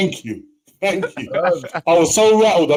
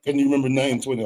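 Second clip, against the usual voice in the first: mock quote; 3 semitones lower, 4 dB quieter, much faster than usual. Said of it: "I can't back".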